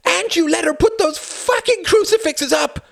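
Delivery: high, loud, unrestrained shouting; screaming rage. A narrator's reading. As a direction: let the fury explode. Screaming fight between father and son.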